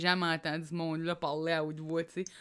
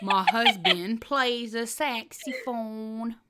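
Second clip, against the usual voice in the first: very slow, stretched mock drawl; Hillary Clinton impression; much slower than usual. Retrying Hillary for her friend, slow drawl. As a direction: savor every syllable. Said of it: "Hillary Clinton".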